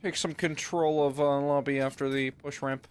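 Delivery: lightly voiced scheming villain; evil villain voice. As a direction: muse over the plan like a hint of a plotting baddie. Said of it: "Why does Chop sound like that?".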